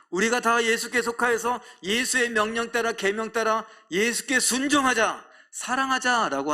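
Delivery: fervent preaching. Acted. Pastor urging the church, loud fervent preaching. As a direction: lift the congregation with a loud plea.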